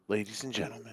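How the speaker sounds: booming announcer with stadium echo; echoing arena announcer. Acted. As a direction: announce it like a big empty arena. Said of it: "sounds like you're in, like, an, like, a half-empty".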